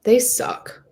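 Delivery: a sulky whispered aside; whispered grumble. Acted. Carmen grumbling to her friend about the DTs, whispered. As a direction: whisper it, annoyed.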